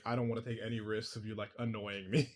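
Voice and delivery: put-on low, quiet grumbling old man; annoyed old man voice. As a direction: grumble it like a fed-up old villain. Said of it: "an annoyed old man voice".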